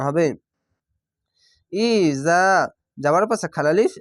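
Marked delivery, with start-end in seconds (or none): 1.7-2.4 ইজা with a drawn-out final "zaa"; one-alif elongation. Shown as a demonstration. Teacher modelling for learners, ইজা with long final "zaa". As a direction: lengthen the last vowel of ইজা. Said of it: "এক আলিফ টেনে পড়বেন".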